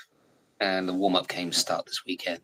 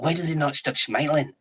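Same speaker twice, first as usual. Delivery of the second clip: baffled manager, pitched up; puzzled mock complaint in a changed voice; imitating Ferguson; 7 semitones higher than usual. Retelling how Ferguson saw Zola, baffled higher voice. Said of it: "He's like".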